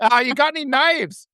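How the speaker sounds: light put-on Wisconsin accent; northern Wisconsin cop. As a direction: imitate a folksy Wisconsin cop asking. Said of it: "he's like a cop".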